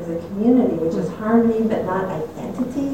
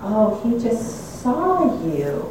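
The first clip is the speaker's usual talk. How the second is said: gentle realization; 3 semitones higher, much slower than usual. Retold or imitated. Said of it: "awareness of".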